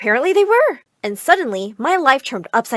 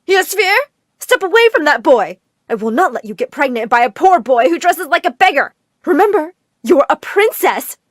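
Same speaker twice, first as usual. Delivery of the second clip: loud, high blaring PA voice; loud announcement; 5 semitones higher, 6 dB louder than usual. Acted. Mother blaring over the school speakers at her daughter, loud. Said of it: "a loud announcement erupted".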